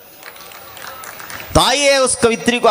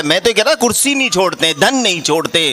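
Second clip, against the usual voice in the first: ordinary delivery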